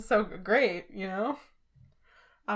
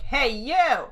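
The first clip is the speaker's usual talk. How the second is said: louder, challenging call-out; mock confrontation; 4 semitones higher, 5 dB louder than usual. A fan confronting a comedian for a friend, loud mock call-out. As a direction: call him out like picking a fight.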